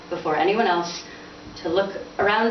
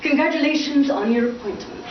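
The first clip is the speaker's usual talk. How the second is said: bright, higher congratulations; sudden brightness; 7 semitones higher than usual. Acted. Father suddenly bright toward his son. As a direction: switch to sunny cheer. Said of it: "with sudden brightness".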